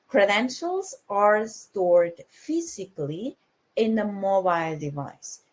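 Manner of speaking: slow, deliberate stress on "Credentials are stored physically"; emphatic. Real, not acted. Speaker driving home one important aspect of ID wallets, slow emphasis on "physically". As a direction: spell out "stored physically" slowly, word by word. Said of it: "so let me emphasize".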